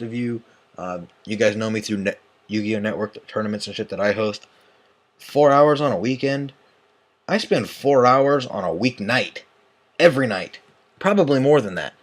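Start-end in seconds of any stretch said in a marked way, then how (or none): 5.2-11.9 1 exasperated outburst. Real, not acted. Scoffing at weekend four hours.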